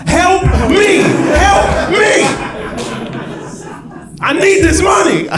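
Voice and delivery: high, loud frantic begging; desperate pleading donor. Acted. Guy filling out the form begging in a frantic high shout. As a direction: plead hysterically like a panicked guy caught out. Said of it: "they're like".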